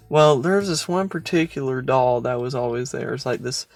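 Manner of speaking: hushed, spooky telling; creepy storytelling voice. Shown as a demonstration. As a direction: draw them into the dread. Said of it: "I'm gonna put on my creepy voice now".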